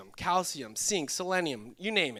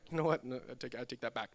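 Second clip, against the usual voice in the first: mock hesitant retraction; 6 semitones lower, 8 dB quieter than usual. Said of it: "you look around like".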